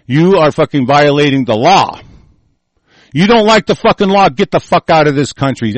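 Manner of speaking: loud angry cursing; swearing tirade. Real, not acted. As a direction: tell them to get out. Angry rant about traitors.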